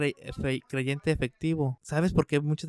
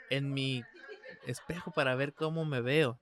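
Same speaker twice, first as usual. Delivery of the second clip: laughing. Real, not acted. Laughs about checking his reflection.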